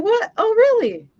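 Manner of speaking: squealing high disbelief, nearly crying; shrill pretend gasp of shock; mock shocked. Friend retelling her fake-out reaction, high and squeaky.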